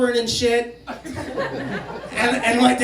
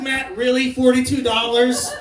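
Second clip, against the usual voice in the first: "Forty-two dollars" as a quicker incredulous question; "Forty-two dollars" thrown back in disbelief; disbelieving echo. Retold or imitated. Dad repeats the sum in disbelief.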